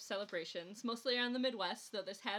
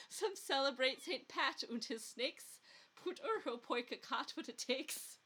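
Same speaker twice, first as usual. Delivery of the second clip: put-on Minnesota Finnish accent; 3 semitones higher than usual. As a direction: ham up a Minnesota Finnish accent for a folk poem. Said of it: "attempt to read this poem written in a Minnesota Finnish accent".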